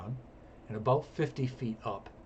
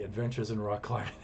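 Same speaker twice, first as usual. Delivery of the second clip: softer, chuckling repeat of the title; laughing; 3 semitones lower, 5 dB quieter, faster than usual. Real, not acted. Signing off the story to viewers, softer through a laugh. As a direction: laugh it out as an afterthought.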